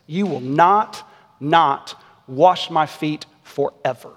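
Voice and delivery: slow, measured refusal ending on a drawn-out "forever"; emphatic double negative. Retold or imitated. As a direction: separate each "not" with a deliberate pause. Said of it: "as much negative emphasis as possible".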